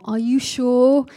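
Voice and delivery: fearful questioning. Retold or imitated. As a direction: draw it out as an imitated worried relative. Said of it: "it's fearful language".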